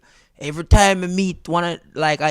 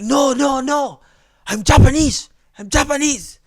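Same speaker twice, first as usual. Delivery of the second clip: protesting friend; 8 semitones higher, 4 dB louder than usual. Retold or imitated.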